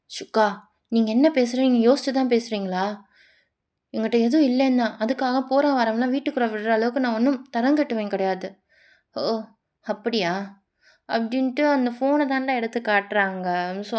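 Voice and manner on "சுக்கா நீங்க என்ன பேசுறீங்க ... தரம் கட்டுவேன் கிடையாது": lightly acted indignant retort; indignant accused lover. The speaker answers a partner's accusation, offended and indignant. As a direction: push back at the accusation, a bit forceful.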